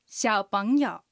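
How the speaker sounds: 小朋友 in Mandarin, xiǎopéngyou with 小 in the third tone, 朋 rising in the second and 友 in the third; teacher models 小朋友 tone by tone; Chinese drill word. Shown as a demonstration. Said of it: "では、練習しましょう。". (小朋友を中国語で、小は三声、朋は二声で上げ、友は三声で)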